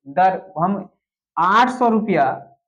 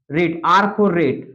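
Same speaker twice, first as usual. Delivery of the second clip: slow dictation; 3 semitones lower, much slower than usual. Shown as a demonstration. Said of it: "teacher dictates the notation".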